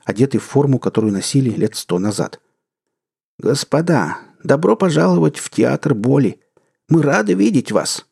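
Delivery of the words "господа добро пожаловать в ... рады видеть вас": put-on a touch of an old usher's rote welcome; rehearsed greeting. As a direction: recite it like the hundredth time. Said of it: "отрепетированные, повторяемые фразы".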